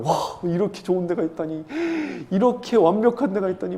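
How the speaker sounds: marvelling at a wonderful discovery, with a laugh in it; acted amazement. Voicing grandfather amazed at heaven.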